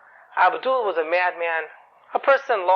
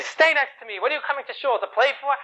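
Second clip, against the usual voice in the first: higher-pitched, imitated scolding; scolding father; 5 semitones higher than usual. Strict father to his son in synagogue, imitated scolding. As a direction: scold like a strict father, without real shouting. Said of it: "my father used to scream at me".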